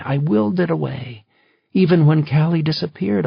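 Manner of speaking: wife's mounting accusation, loud and high; rising anger. Acted. Wife confronting husband over their daughter, rising anger.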